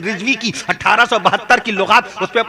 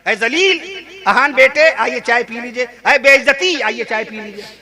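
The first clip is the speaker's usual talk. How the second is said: 1 mock parent calling. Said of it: "आप पुकार रहे हैं".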